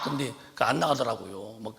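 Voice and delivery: normal talking voice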